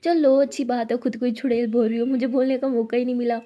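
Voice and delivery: loud triumphant retort; loud playful gloat; gloating comeback. Acted. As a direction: crow over the win, loudly. Abeera scoring a point, gloating.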